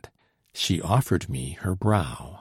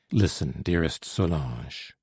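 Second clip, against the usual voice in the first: tender; 5 semitones lower, 5 dB quieter than usual. A narrator's reading. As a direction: speak tenderly to a loved one, lingering. Lover addresses his dearest Solange.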